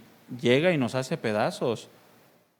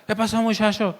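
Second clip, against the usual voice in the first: put-on Mazatlán accent, higher, dragging out "pasó"; drawled Mazatlán accent; 4 semitones higher than usual. Pastor mimics his Mazatlán hometown accent, drawling. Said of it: "arrastrando la, la, las palabras".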